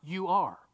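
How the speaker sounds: "You are" set apart as the key words; deliberate, isolated "You are"; stress on "You are". Shown as a demonstration. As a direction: point out "You are" to listeners. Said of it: "now what are the next two words".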